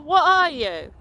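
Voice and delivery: angry demand. Real, not acted. Woman demanding her harasser name himself, loud and angry. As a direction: call him out loudly.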